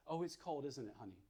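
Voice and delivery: put-on soft, hushed comfort to a baby; tender quiet validation; soothing mother. Shown as a demonstration. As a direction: lull the baby gently. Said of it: "validates the baby's stress".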